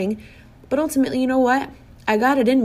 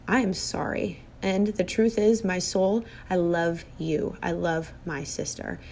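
soft, quiet and heartfelt, trailing down; tender sincere apology; 2 semitones lower, 5 dB quieter than usual. Retold or imitated. Telling her estranged sister she loves her, softly and sincerely. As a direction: say sorry gently, meaning it.

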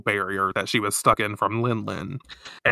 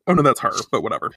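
normal talking voice

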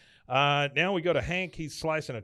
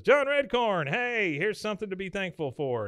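excited greeting; 8 semitones higher than usual. Acted. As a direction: call out big news to a friend, hammed-up. Dale's eager greeting, acted out.

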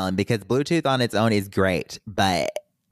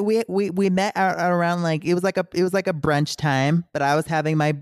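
pitched up, protesting; high defensive voice; 8 semitones higher than usual. Real, not acted. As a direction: squeak it out defensively. Defends eating breakfast at brunch.

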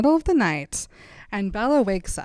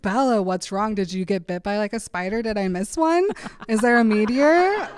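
mildly hammed-up alarm, rising at the end; mock frantic concern; 2 semitones higher than usual. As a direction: play a worried boyfriend grasping at explanations. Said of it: "is freaking out".

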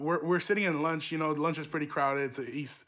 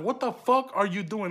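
shocked teacher yell; 3 semitones higher than usual. Retold or imitated. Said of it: "she's like".

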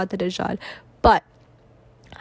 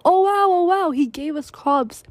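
amazed; 7 semitones higher than usual. Retold or imitated. Crowd amazed by false miracles.

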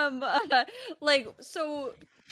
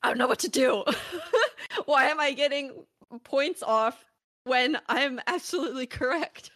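mock exasperated self; 4 semitones higher than usual. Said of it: "being like".

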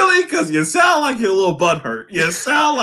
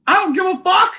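mock rant; 11 semitones higher than usual. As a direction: bark it back at him, half joking. Snapping back at the complaining DM.

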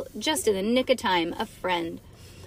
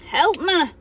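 loud, high storybook call; cry for help; 8 semitones higher, 8 dB louder than usual. A narrator's reading. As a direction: plead loudly from the jungle. Bean's mock cry for help.

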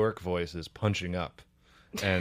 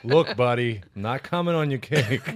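put-on Charleston accent; 2 semitones higher, slower than usual. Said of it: "this is a Charleston accent".

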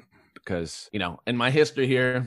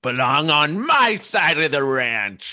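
slow and emphatic on MY; indignant rancher; 4 semitones higher, 4 dB louder, slower than usual. Acted. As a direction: lean hard on my side. Rancher argument.

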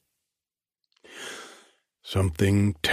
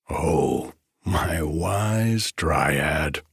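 breaking on laughter; 3 semitones lower, much slower than usual. Acted. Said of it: "His voice broke on laughter".

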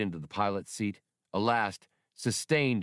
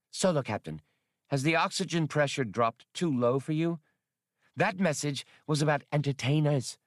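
raised, puzzled alien woman's voice; Atwari doubtful; 6 semitones higher than usual. Acted. Atwari questioning Han's sanity, doubtful. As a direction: ask if he's lost his mind.

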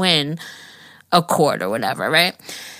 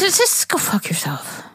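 whispered curse; 9 semitones higher, 4 dB quieter than usual. Acted. Mock whisper of the insult.

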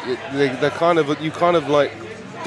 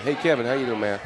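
lower, laid-back New York accent; casual New York greeting, lower in pitch; 3 semitones lower, 4 dB quieter than usual. Shown as a demonstration. Actor greets co-star on request in New York accent. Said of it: "I can do New York".

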